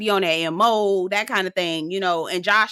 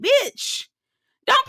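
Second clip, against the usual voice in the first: incredulous exclaim. Real, not acted. Reacting to Diamond's claim.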